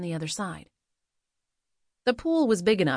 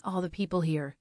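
sardonic echo; 4 dB quieter than usual. Acted. Narrator throws the words back.

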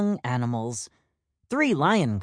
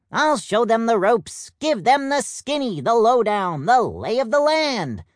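eager peacock; 7 semitones higher, 4 dB louder than usual. Acted. Plum eagerly agrees to babysit.

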